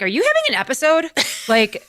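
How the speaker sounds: alarmed nephew. Retold or imitated. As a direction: sound alarmed at the change. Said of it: "the nephew's like".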